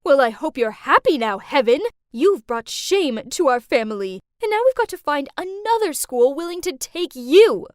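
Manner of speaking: loud scolding mother; mom yelling. Retold or imitated. Mom yelling at her expelled daughter, loud scolding. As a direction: yell it at your disobedient daughter. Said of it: "my mom yelled at me".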